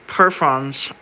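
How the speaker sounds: "perfons" read slowly with an F, "perfons"; "perfons" said with an F sound; long-s reading. Shown as a demonstration. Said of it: "of verfes".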